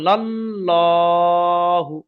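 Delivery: লাল্লাহু drawn out very slowly, with a heavy, round-mouthed ল্লা; heavy l recitation. Shown as a demonstration. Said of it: "কেন ল?". (লাল্লাহু টেনে টেনে, পুর ল উচ্চারণে)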